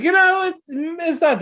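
sudden high, loud squeak; squeaky awkward start. Retold or imitated. Couple reading a bad fortune, squeaking high. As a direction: jump up high in embarrassment.

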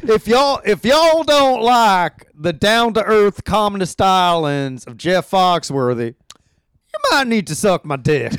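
lightly put-on Southern drawl, hammed-up; mock Southern accent. Riffing on Jeff Foxworthy fans in a mild mock Southern accent. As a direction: play a brash redneck in a mild Southern accent. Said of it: "kind of a southern accent".

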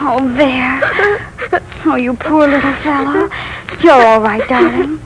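put-on soft, soothing lull to a frightened child; rocking a scared boy in her arms; tender comfort.

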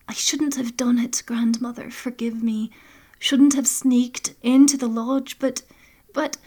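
a granddaughter begging forgiveness, hushed; young Brana, pleading. Acted.

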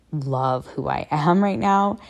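slow, smiling as she speaks. Real, not acted. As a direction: say it through a real smile. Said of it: "I drool when I say that, and I smile when I say that".

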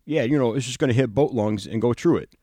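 a light, imitated Chicago accent; retelling a coworker's line in a loosely imitated Chicago accent; mock Chicago accent. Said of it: "because he talks with a terrible Chicago accent".

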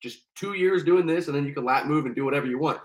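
smooth-talk like a recruiter selling; recruiter's cheerful sales pitch; salesman recruiter. Retold or imitated. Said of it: "he's like".

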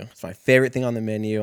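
hammed-up waiter enthusiasm; mock eager waiter. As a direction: push the pitch like a salesman. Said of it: "this motherfucker goes".

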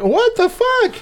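shocked disbelief. Retold or imitated. Viewer reacting to the twist reveal, shrieking in shock. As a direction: blurt it out in total disbelief. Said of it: "you're like".

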